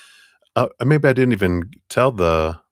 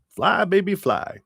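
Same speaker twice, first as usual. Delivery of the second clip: high, sing-song cheer; 12 semitones higher than usual. Acted. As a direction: send them off with a lift. Cheering the viewer on.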